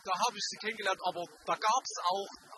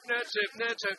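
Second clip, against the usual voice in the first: emphatic correction; 4 semitones higher, 4 dB louder, slower than usual. Real, not acted. Corrects podcast name repeatedly.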